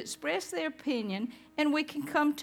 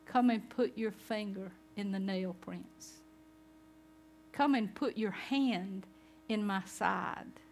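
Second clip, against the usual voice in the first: gentle invitation; 5 dB quieter than usual. Acted. Jesus invites Thomas.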